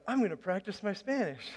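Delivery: chuckling through the words; laughing at his own plan. Retold or imitated. Pastor laughing as he retells his plan.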